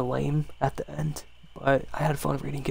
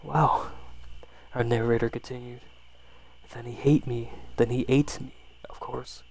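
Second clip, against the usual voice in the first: hushed, intimate storytelling voice; 3 semitones lower than usual. A narrator's reading. ASMR story read aloud.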